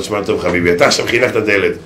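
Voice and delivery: rabbi's mock sermon climbing; rabbi scolding. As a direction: lecture the father, rising to a shout. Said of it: "אמר לו".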